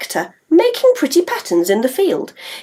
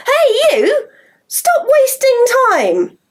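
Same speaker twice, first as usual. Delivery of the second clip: calling out; 11 semitones higher, much slower than usual. Acted. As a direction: shout across the field to stop him. Molly calls out to farmer.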